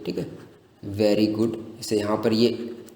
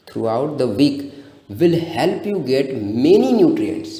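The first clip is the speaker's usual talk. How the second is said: slow, word by word, "many" stressed; slow read-out; much slower than usual. Shown as a demonstration. Teacher reading the correct answer slowly to the class.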